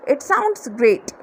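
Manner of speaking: "sounds great" stretched very slowly; slow demo. Shown as a demonstration. Teacher models the reply to a friend's plan, very slow. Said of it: "तो आप बोलोगे".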